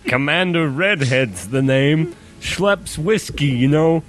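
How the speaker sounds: hammed-up British commander; British accent. Penguin introduces himself in disguise, mock British accent. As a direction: put on a jolly fake British accent. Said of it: "Redhead accent".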